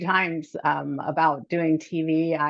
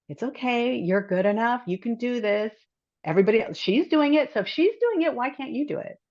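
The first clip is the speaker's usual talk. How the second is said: a pep talk to herself, pitch higher; encouraging self-talk; 3 semitones higher than usual. Retold or imitated. Coaching herself past her nerves, mildly upbeat self-talk. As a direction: coax yourself gently into believing you can. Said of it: "I kinda have to self-talk".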